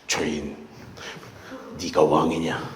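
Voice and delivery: low, quiet menacing judge; 노려보는 판사. Acted. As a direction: question the accused in a hushed, very low voice. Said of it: "판사가 여러분 이렇게 노려보고 있으면". (낮게 깔고 위압하는 판사 목소리)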